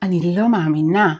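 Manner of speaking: devastated disbelief, weight on לא; devastated intonation. Shown as a demonstration. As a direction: say "אני לא מאמינה" as if stunned by bad news. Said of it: "Again, devastated intonation".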